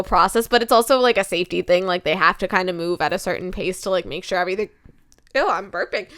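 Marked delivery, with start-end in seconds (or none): 3.9-6.1 talking through hiccups and burps; words broken by a hiccup. Real, not acted. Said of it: "Sorry, I have the hiccups".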